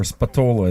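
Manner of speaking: Spatola said spuh-TOH-luh, stress in the middle; American pronunciation. Shown as a demonstration. Host showing viewers how Americans say the name, Spatola as spuh-TOH-luh. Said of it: "If you're American, you probably".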